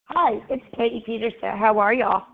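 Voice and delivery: real hoarse, strained throat. Real, not acted. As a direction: talk through a hoarse sore throat. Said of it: "my voice is a little bit, uh, hoarse".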